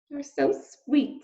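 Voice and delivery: slow, doting princess voice; gentle princess cooing; sweet princess. Acted. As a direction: coo it to the little mouse. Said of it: "said the princess to Despereaux".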